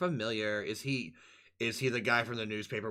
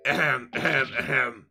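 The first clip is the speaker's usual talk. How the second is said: throat clearing; 4 dB louder than usual. Real, not acted. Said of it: "what voice did I give him?".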